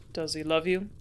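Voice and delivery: gentle, caring question; sympathetic. A narrator's reading. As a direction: ask kindly, with real sympathy. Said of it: "with a note of sympathy".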